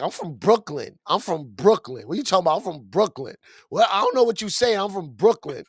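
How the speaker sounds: lightly imitating C's flat, insistent threat; repeated threat. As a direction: say it over and over like a warning, half-hearted. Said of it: "Like, over and over. Like, that was the threat".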